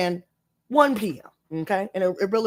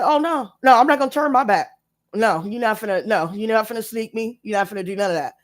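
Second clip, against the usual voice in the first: defiant retold warning; 3 semitones higher than usual. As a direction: refuse to turn your back, defiant then settling. Retold defiance to group approaching.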